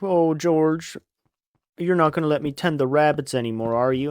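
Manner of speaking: lightly voiced worried simpleton; Lenny. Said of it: "Lenny's like".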